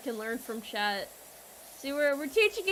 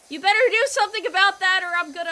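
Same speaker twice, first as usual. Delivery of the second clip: mock scolding; 4 semitones higher, 8 dB louder, faster than usual. Scolding chat about the container.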